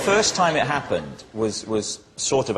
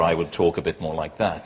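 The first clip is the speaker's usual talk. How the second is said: lower, serious newsreader tone; lightly voiced lower newsreader; 6 semitones lower than usual. Shown as a demonstration. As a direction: drop into a newsreader's read. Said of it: "The newsreader".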